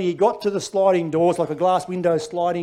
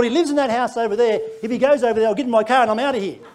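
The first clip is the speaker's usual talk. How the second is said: scheming thought; 5 semitones higher, 4 dB louder, faster than usual. Retold or imitated. Comic escape plan, higher and louder.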